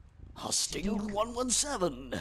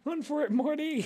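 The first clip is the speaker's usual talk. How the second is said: higher, urgent movie-quote call; mock urgent cry; 6 semitones higher than usual. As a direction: call out a playful warning. Acted film quote, warning cry.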